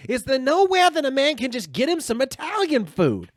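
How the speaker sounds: imitated loud, high-pitched exasperated demand; pissed-off outburst. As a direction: yell it like a comic fed up in a cafe. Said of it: "pissed off".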